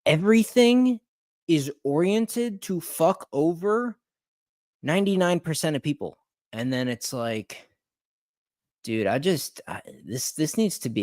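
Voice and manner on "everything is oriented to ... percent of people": ranting outrage. Real, not acted. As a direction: pitch climbing high in outrage. Furious rant about industry.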